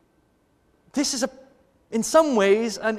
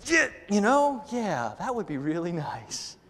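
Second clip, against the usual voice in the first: imitating wife; 8 dB quieter, slower than usual. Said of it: "She says".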